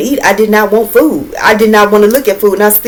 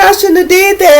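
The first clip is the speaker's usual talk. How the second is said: retold panic; 11 semitones higher than usual. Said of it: "I'm like".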